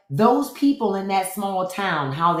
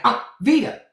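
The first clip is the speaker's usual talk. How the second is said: imitating Wesley Snipes' drag queen. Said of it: "Wesley Snipes was like".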